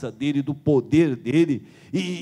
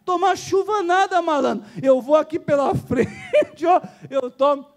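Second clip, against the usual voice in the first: mock street-smart guy; 11 semitones higher than usual. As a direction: play the cheeky line-cutter. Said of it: "o cara, poxa, foi criado aqui no Brasil". (malandro debochado, agudo)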